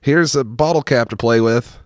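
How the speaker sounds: great aunt voice. Retold or imitated. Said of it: "she would come around and be like".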